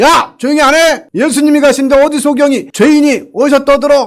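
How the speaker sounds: high, harsh scolding tone.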